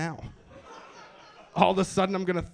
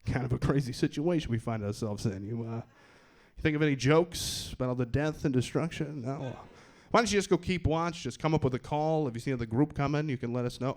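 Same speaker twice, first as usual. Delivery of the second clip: lower, patronizing leader brushing him off; condescending leader; 4 semitones lower than usual. Acted. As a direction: talk down to the useless guy.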